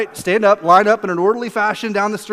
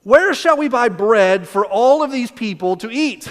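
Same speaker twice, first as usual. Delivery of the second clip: smirky tease; 4 semitones higher, 3 dB louder, slower than usual. Retold or imitated. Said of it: "like, smirky a little bit".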